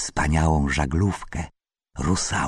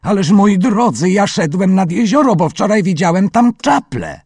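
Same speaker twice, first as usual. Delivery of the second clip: much higher, louder flustered plea; trembling uncle; 14 semitones higher, 9 dB louder than usual. A narrator's reading. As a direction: stammer it out in a fright. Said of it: "Wujaszek zadygotał cały".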